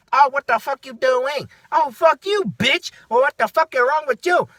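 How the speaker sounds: high, loud mock squabble; imitated angry arguing. Imitating two ladies arguing over machines, mock angry. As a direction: act out two people cursing each other. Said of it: "it was just so angry".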